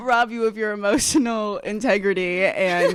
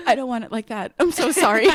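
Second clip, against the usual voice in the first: teasing imitation of a meek boss; mock apology; 2 semitones higher than usual. Friend teasing her about being snappy, mock-apologetic. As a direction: play up an over-sweet apology. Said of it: "can't even imagine you being snappy".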